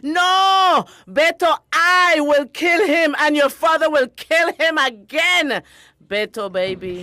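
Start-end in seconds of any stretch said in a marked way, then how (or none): 0.0-5.6 fierce vow. Acted. Mother vows revenge.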